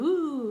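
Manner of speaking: drawn-out "ouh", swooping up and down; little put-on "ooh" of excitement; mock-excited ooh. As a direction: play at being thrilled. Mimes excitement she feels less of.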